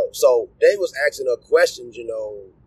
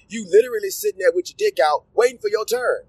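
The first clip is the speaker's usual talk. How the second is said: laughing disbelief; 4 semitones higher than usual. Real, not acted. Incredulous rant about trains.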